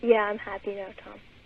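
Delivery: dry, sarcastic, mock-satisfied tone. Answering another speaker who asks if they're happy: sarcastic tone. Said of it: "You're so sarcastic".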